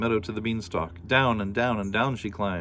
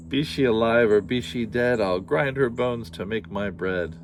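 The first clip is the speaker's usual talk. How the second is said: louder, heavy giant threat; threatening giant; 4 dB louder than usual. Acted. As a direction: growl the rhyme as the giant.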